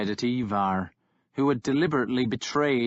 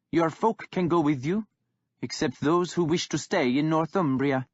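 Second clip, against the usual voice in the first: put-on young king holding firm; defiant young king; 6 semitones higher than usual. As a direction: stand your ground, unmoved by the insult. Guthred makes his offer.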